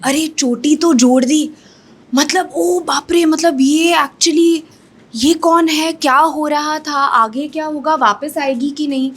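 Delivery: lightly acted curious bewilderment; imitating puzzled viewers. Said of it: "लोगों के दिमाग में सवाल पैदा हुए".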